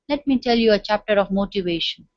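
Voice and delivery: low, gloomy classroom opening. Shown as a demonstration. Teacher showing trainees a dreary delivery, gloomy. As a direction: sound glum while announcing the topic. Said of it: "So how gloomy I am in talking".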